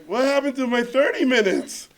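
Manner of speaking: high, loud mock outrage; panicked protest. Director told his pitch time is cut, loudly protesting.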